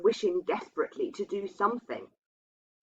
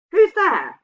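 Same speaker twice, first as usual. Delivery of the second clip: high, loud frightened call; startled call; 12 semitones higher, 11 dB louder than usual. A narrator's reading. Girl at a night knock, calling out in fright.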